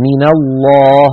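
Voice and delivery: slow recitation, من joined as mina to الله; nun given fatha. Shown as a demonstration. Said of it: "تحرك الأول بالفتح".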